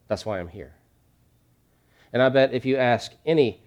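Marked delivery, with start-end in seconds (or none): 0.1-0.7 hushed repeat. Real, not acted. Repeated again softly.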